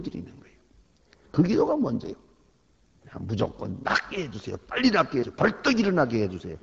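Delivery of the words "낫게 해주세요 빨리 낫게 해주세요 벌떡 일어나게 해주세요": mock impatient begging; imitating a greedy prayer; demanding prayer. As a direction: ham up a pushy plea to be healed.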